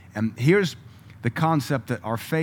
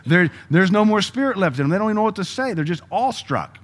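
excited preaching; 9 semitones higher, 5 dB louder than usual. Real, not acted. Preacher exclaiming about stunned parents.

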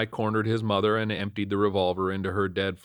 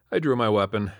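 usual speaking voice

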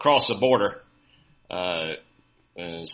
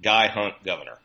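rushed sign reading; 4 dB louder, faster than usual. Retold or imitated. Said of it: "it said".

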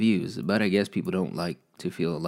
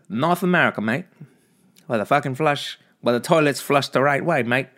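higher mock Aussie; hammed-up Australian, pitched up; Australian accent; 6 semitones higher, 5 dB louder than usual. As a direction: slip into a jokey Australian accent. More mock Australian mid-story.

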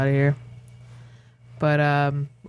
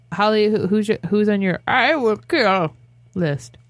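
put-on old lady voice; 3 semitones higher than usual. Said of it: "how it's done in the old lady voice".

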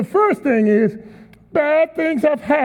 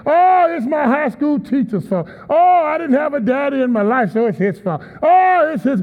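whiny blamer. Retold or imitated. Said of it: "they love to blame other people".

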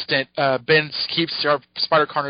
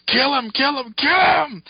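high alien hiss of a chant; alien symbiote scream; 11 semitones higher than usual. Retold or imitated. Symbiote urging Ben to kill Peter, high creature voice. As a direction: urge him on like a Yeerk in his ear. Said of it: "the symbiote just screams in his ear".

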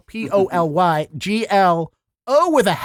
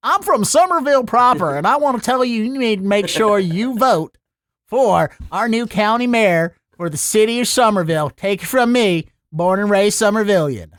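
hammed-up Boston accent, pitched up then settling; 4 semitones higher than usual. Shown as a demonstration. Somerville local urging people to vote, Boston accent. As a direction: campaign like a born-and-raised Boston local. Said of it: "I'm gonna come in with my very normal regional American accent".

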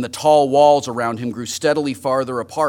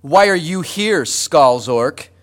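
demanding; 3 semitones higher, 3 dB louder, slower than usual. A narrator's reading. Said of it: "he demanded".

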